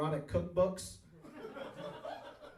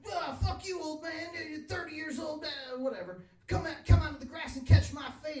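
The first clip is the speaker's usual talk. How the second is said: put-on angry kid; 9 semitones higher than usual. Kid taunting the old man to fight, high mocking voice. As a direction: taunt like a cocky thirteen-year-old. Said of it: "And he's like".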